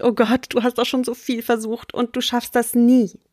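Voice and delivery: lightly voiced nagging inner critic; mock inner saboteur voice. Coach voicing the listener's inner saboteur, lightly mocking. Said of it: "Vielleicht schreit die gerade".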